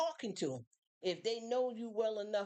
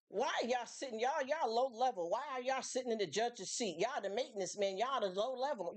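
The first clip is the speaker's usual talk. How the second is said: higher, mocking put-down of the seated staff; rude put-down; 4 semitones higher than usual. Higher voice, rudely telling staff to leave judges' seats. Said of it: "You don't gotta say it like that".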